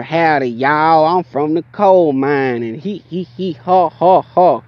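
hammed-up country drawl, stretched out; mock country accent. Storyteller mocking locals who called him country, exaggerated country accent. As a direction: imitate a hee-hawing country local. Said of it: "y'all are very country to me".

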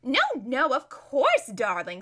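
breezy, loud dismissal dropping off at the end; careless, distracted society lady; absent-minded. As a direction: brush her off without listening. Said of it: "said Lazareline absent-mindedly".

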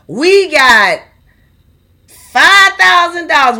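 loud, drawn-out collection announcement; insistent money demand. Retold or imitated. Church collector pressing the rows for five thousand dollars, loud and insistent. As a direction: pound out each demand, voice climbing and stretching the final words.

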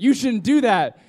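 loud, high mock warning; retold warning. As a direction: call out an acted objection.

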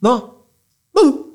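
high wailing no, cracking upward; hammed-up teary wail; mock drunk crying. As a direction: whimper it like a drunk in tears. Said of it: "empecé a llorar".

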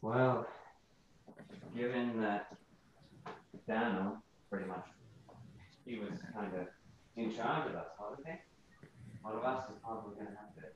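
quiet British character voice, fading away; trailing off. Real, not acted. Player rehearses his character's line, trailing off. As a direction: start audible, then sink to a barely heard murmur. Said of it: "You keep, like, trailing off".

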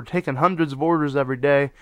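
ordinary delivery

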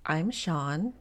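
lightly imitating a co-host's voice; Sean. Co-host mimicking her friend's introduction, light impression. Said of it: "say it like I would say it".

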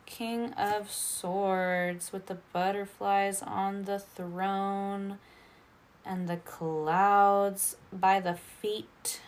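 talking between sips of water; while sipping a drink. Real, not acted. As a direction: speak around a sip of water. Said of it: "I'm drinking some water".

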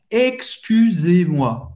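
Excusez-moi said slowly, each syllable clear; slow French model. Shown as a demonstration. Teacher drills Excusez-moi slowly for the class. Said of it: "usando o vous".

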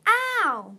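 high, loud cry of pain; pained roar. A narrator's reading. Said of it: "Orchard roar".

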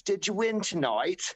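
put-on high, slow kid asking hopefully; the little boy again, wide-eyed and curious. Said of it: "And he goes".

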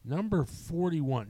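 a lighter pass at the number reveal; lighter countdown announce. Acted. Re-announcing the movie to her co-host, a lighter announcer tone. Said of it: "countdown host reveals next movie".

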